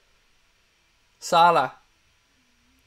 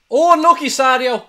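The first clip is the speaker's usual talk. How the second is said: much higher, louder groan of excitement; excited near-miss cry; 9 semitones higher, 10 dB louder than usual. Real, not acted. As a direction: leap up at the chance that just missed.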